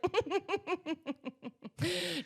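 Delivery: long, high staccato put-on chuckle; imitated knowing chuckle. Host imitates him answering an outnumbered threat, knowing chuckle. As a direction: chuckle on and on, mock-sly.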